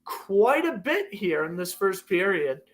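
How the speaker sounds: live hockey play-by-play. Acted. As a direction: call the game like a broadcaster. Plays a hockey game call.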